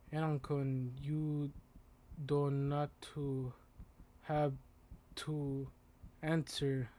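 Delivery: put-on slow, halting broken English with a Japanese accent; word by word in a heavy Japanese accent; careful Japanese-accented teacher, spaced-out words; thick Japanese accent. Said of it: "He speaks in a very thick accent".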